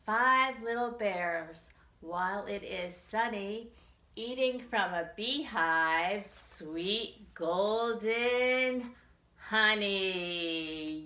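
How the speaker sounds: slow nursery rhyme, stretching golden honey; singsong rhyme. Acted. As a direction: read it to children, drawing it out. Rhyme continues.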